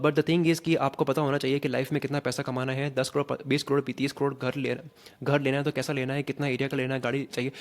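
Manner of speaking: detached read from a script, no feeling; just read it off the page, uninvolved; flat script reading. Shown as a demonstration. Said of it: "मैं उसको ना बस, बस पढ़ रहा हूँ केवल".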